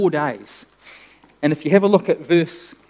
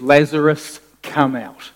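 firm call, louder on the name; commanding call; 5 dB louder than usual. Retold or imitated. Preacher voices Jesus calling Lazarus from the tomb, commanding call. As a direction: call out the name, then the order.

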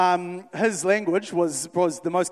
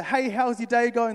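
higher, slow, friendly retail hello; cheery shop greeting; 5 semitones higher, slower than usual. Retold or imitated. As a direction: greet the customer brightly and slowly. Greeting a customer in store.

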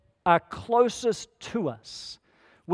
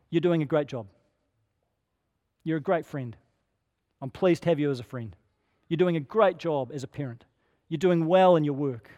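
lower, measured words of affirmation; sincere encouragement; 4 semitones lower than usual. Acted. Blessing someone over coffee by looking them in the eye, sincere encouragement. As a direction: gently affirm a friend, lower in pitch, with pauses between compliments.

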